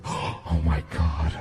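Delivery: hushed whisper, half laughing. Retold or imitated. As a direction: whisper it like a scared passenger hoping for rescue. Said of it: "They were like".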